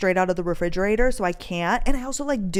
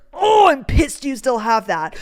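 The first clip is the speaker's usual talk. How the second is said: mock annoyance; 4 semitones higher, 6 dB louder than usual. Boyfriend's retold annoyance at her drink.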